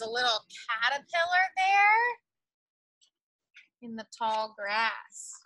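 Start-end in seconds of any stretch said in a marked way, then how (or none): 3.8-5.3 whisper. Acted. Storyteller whispers to children.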